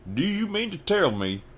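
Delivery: high, loud indignant growl. A narrator's reading. Hagrid growling at the Dursleys, loud. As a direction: growl in disbelief. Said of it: "he growled at the Dursleys".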